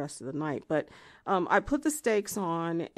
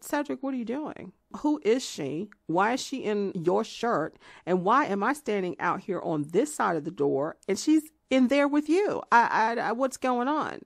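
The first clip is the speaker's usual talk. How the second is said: louder, higher, rising outrage at the door; angry loud confrontation; 5 semitones higher, 5 dB louder than usual. Retold or imitated. Woman at door confronts her boyfriend, loud and angry. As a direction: demand answers, getting more frantic.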